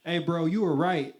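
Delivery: mock call-out. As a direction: yell it cheerfully from the car. Calling out of the car window.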